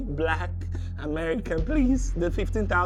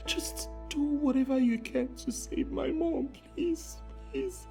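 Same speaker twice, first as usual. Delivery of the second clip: desperate begging; 3 semitones lower than usual. Acted. Scammer begging for money.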